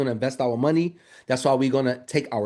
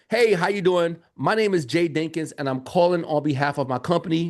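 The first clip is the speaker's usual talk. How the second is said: professional pitch. Shown as a demonstration. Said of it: "I'm gonna say".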